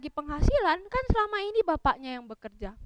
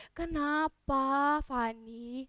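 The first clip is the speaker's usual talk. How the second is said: very slow, drawn-out question; a hint of a slow grandma; lightly voiced grandmother; 4 dB quieter, much slower than usual. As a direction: stretch it out in gentle concern. Grandmother answers the crying child.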